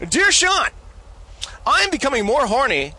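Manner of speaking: hammed-up foreign European accent; strange European accent. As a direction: read it out in a made-up European accent. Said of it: "my sort of strange European accent".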